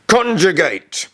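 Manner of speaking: very high, loud, slow bellowed order; teacher bellowing at her silent son; furious roar. A narrator's reading. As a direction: explode with the one word.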